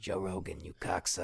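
raspy comic impression, gravelly voice; lightly doing a gravelly comedian; Joey Diaz. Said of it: "cigarette voice like Joey Diaz".

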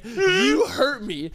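slow, whiny fake crying; milk the hurt with fake tears; hammed-up wounded whimper, slow; mock hurt. Mock-wounded complaint to old lady.

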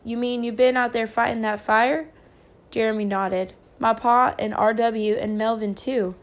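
measured storytelling with lightly voiced dialogue; story narration. A narrator's reading. A narrator reads the children's night of the fire, storytelling. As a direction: read aloud as a novel's narrator.

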